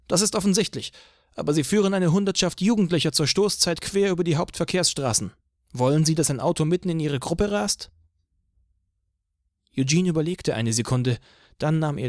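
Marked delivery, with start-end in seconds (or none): 0.1-7.9 higher, stern officer voice; police chief voice. A narrator's reading. Police chief lectures Eugene on the traffic danger, higher stern voice.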